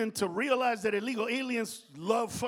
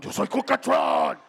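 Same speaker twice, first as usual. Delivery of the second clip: robot parody; 9 dB louder than usual. Pretend.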